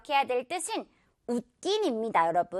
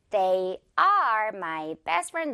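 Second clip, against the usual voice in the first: "they are my best friend" dragged, "are" in full; too slow; 3 semitones lower, much slower than usual. Shown as a demonstration. Teacher shows learners the sluggish version, too slow. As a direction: plod through "they are" word by word. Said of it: "너무 느리죠?".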